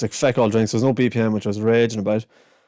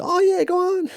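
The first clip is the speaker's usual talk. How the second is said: put-on kid's rant. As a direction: splutter like an outraged little kid. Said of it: "he was like".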